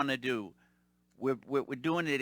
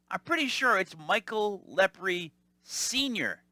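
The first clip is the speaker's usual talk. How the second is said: sly tease; 5 semitones higher, slower than usual. Retold or imitated. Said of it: "teasing the caller".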